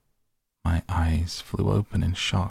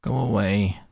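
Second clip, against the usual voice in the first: groaning; 3 semitones higher than usual.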